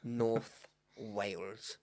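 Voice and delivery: very slow, laughing Welsh North Wales; Welsh accent. Pretend. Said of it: "attempt at a Welsh accent".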